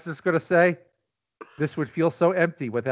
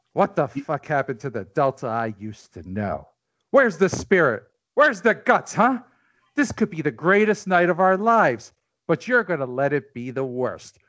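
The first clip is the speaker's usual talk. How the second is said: rallying speech; 3 semitones lower than usual. Acted. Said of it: "famous speech".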